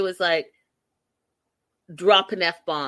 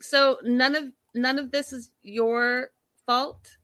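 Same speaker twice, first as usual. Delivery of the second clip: sarcastic retort; 3 semitones higher than usual. Retold or imitated. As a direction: drag it out sarcastically at Andre. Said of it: "I was like".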